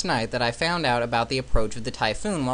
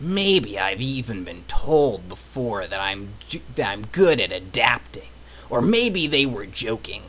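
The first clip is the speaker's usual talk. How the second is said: Solid Snake voice; 3 semitones lower than usual. Retold or imitated. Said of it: "my terrible Solid Snake voice".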